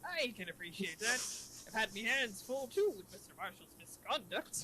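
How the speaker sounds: lightly voiced cartoon crab boss; cartoon sea-captain lilt; Mister Krabs. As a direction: play the chief as a cartoon crab. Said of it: "the Mister Krabs voice".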